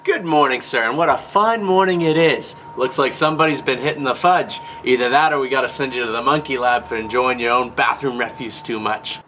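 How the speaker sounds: chipper 1950s salesman. Acted.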